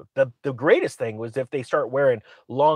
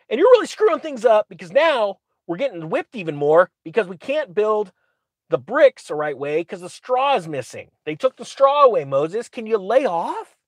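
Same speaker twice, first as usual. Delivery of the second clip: much higher mock complaint; whiny slave voice; 3 semitones higher than usual. The slaves griping at Moses in a high mock whine.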